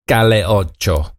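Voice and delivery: lightly put-on Spanish accent; a hint of a Spanish accent on the song title; mock Spanish accent. Host reading out the rapper's song in a mild Spanish accent. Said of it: "sorry about that for offending people with the accent there".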